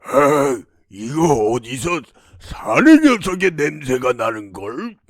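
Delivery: demon's suspicious growl, low with swooping pitch. Acted. Demon to princess about the smell of a man, suspicious. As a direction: sniff out an intruder as a wary demon.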